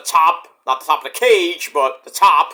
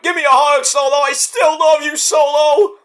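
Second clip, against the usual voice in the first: higher pleading plea for a hug; mock tender Roman; 8 semitones higher, 3 dB louder than usual. Roman begging Solo for a hug, mock tender. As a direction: coax him sweetly, half-joking. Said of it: "And Roman's like".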